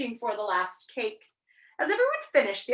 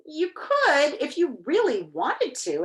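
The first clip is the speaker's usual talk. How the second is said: higher, louder pleading push; insistent; 5 semitones higher, 4 dB louder than usual. A narrator's reading. Milo urging the reluctant king, insistent. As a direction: press the point, leaning on "could". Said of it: "insisted Milo".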